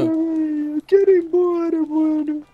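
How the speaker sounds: put-on childish tearful pleading; tearful whining. Child begging to go home, tearful whining. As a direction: whine it over and over, on the verge of crying. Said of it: "Agora só para de chorar".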